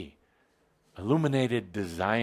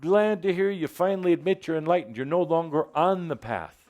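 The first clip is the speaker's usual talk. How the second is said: voice of wisdom; 5 semitones higher than usual. Acted. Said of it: "it comes in and says".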